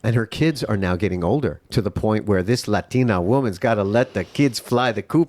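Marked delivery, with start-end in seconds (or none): 2.4-5.3 lightly put-on New York Spanish accent; terrible Spanish accent. Joking about a Latina friend's grown kids, mock Spanish accent. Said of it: "That's my terrible Spanish accent from New York".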